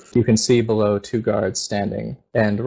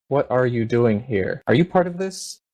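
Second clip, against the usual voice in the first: suspicious paladin; 3 semitones higher than usual. Acted. Paladin confronts the intruder.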